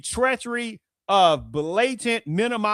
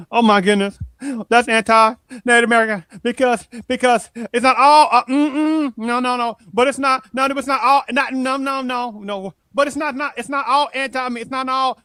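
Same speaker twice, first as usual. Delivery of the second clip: higher and louder, a hammed-up sputtering protest; mock flustered denial; 5 semitones higher, 4 dB louder than usual. Mimicking critics who deny everything, in a loud sputtering mock protest. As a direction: play the caught hypocrite sputtering no no no.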